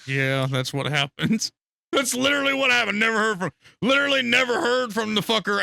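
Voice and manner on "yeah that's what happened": Heather's reply. Retold or imitated. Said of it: "She was like".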